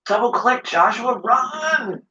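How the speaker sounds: calling out. Real, not acted. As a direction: yell to a teammate to run. Calling to teammate in danger.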